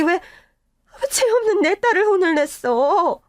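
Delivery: slow, crying protest; tearful protest. Acted. Mother grieves over her punished daughter, slow and crying. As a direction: plead it through sobs, slowly.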